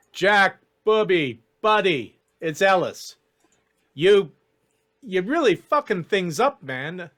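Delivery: exasperated elf coaxing his friend; pleading elf schemer. Acted. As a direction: cajole an old pal who's messing up. GM voices Ellis pleading with Jack.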